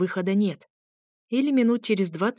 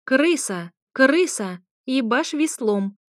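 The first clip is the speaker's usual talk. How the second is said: loud, high parrot squawks, slow on the end; parrot yelling; 6 semitones higher, 4 dB louder, slower than usual. A narrator's reading. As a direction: scream the curses like a parrot. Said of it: "продолжал выкрикивать ругательства". (выкрики попугая)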